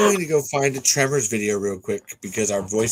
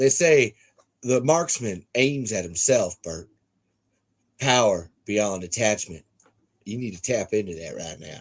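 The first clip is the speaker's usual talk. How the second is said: put-on light Southern accent, held halfway back. Speaker imitating a movie character's lines, in a light Southern accent. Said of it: "it's not full Southern".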